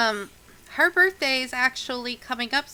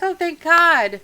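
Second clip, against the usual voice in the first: relieved; 7 semitones higher, 8 dB louder, slower than usual. Acted. Mother learns help has come.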